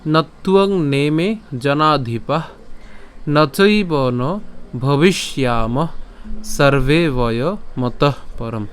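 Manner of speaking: slow, measured shloka chant; Sanskrit verse recitation. Shown as a demonstration. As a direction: draw out each long vowel as you recite. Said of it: "তো আজকের শ্লোকটি হলো".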